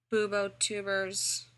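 slow, terse shut-the-fuck-up tone. Acted. Potter silencing his friends with a curt shut-up tone. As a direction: cut them off flatly. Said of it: "impressively shut the fuck up tone".

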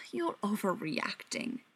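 slow dismissive scoff. Acted. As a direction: brush him off with scorn. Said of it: "Beckett scoffed".

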